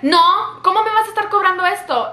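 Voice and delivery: high, fast mock protest; rapid retold outrage; indignant customer. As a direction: imitate a customer disputing the bill. Acting out customer disputing the bill.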